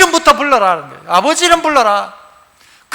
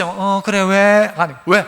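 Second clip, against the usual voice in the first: blunt father; 5 semitones lower, 3 dB quieter, slower than usual. Retold or imitated. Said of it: "무뚝뚝한 아버지".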